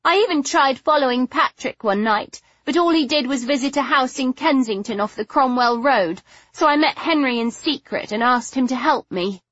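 stubborn. Acted. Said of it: "her chin taking a suddenly stubborn cast".

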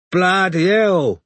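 high, slow, dazed alarm; sick with worry. A narrator's reading. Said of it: "looking sick".

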